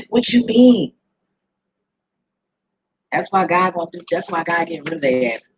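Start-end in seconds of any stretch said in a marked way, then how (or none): 0.0-0.9 slow, higher, louder mocking disbelief; amused outrage at the idea; incredulous laughing drawl. Real, not acted.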